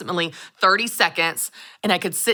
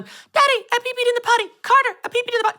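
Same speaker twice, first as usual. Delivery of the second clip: put-on little child's voice; faster than usual. Mom imitating her toddler announcing on a live stream. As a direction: squeal it like a proud little boy. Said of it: "going around the whole house going".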